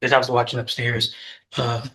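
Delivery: winded from the stairs; talking while catching breath. Real, not acted. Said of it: "I'm out of breath because I took the stairs down".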